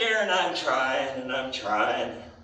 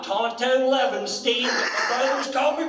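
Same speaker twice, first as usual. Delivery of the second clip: building boast; 5 semitones higher than usual. Retold or imitated. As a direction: start easy, then crow the name. Teller's punchline boast to Lillian.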